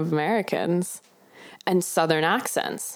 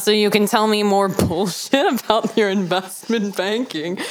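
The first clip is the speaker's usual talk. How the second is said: put-on Southern accent. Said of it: "have to talk in a Southern".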